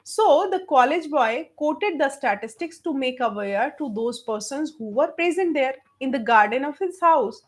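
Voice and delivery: slow, spaced-out dictation voice, each word set apart. Acted. Teacher dictating an answer to students, slow and spaced. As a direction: read it out so students can write it down.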